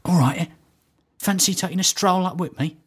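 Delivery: lightly imitated chummy invitation; a touch of matey impression; Terry Venables. Man inviting a supposed acquaintance for a stroll, lightly imitated chumminess. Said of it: "I'm walking with Terry Venables".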